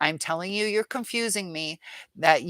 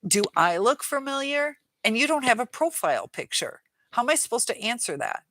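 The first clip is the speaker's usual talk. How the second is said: mocking quote; 5 semitones higher than usual. Mocking the commenter's texts.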